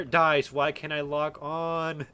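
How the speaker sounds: slow, whiny protest; griping at the developer; drawn-out complaint. Real, not acted. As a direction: stretch it out in annoyance.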